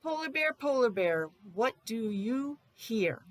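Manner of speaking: sing-song storybook title, slow on what do you hear; reading to children. Acted. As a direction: read the title like a picture book for little kids.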